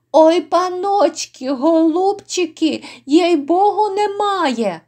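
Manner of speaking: high-pitched, coaxing wail; wheedling plea. Acted. Innkeeper swearing to the lords he has none, high wheedling plea.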